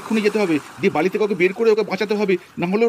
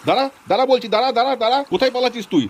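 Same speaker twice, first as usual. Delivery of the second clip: angry chase; 4 semitones higher than usual. Acted. Husband chases the fleeing villain.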